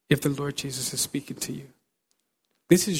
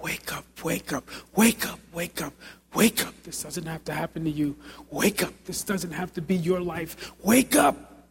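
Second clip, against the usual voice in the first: urgent call to wake. Retold or imitated. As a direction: wake up rising to a shout. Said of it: "and I would just say".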